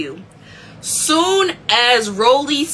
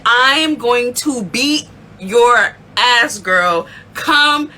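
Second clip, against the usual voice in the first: slow threat; much slower than usual. Retold or imitated. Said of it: "really adamant, like".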